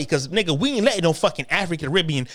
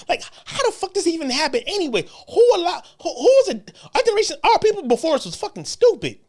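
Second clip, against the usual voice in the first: laughing in disbelief, pitched higher and quick; incredulous laughter, higher and faster; 9 semitones higher, faster than usual. Real, not acted. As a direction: laugh through the outrage.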